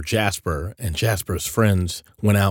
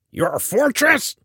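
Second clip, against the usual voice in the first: very high, slow incredulous outrage; getting angrier; 4 dB louder than usual. A narrator's reading. Eliza Grubb repeats the goblin's claim, getting angrier. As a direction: throw it back in disbelief, angrily. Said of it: "getting angrier".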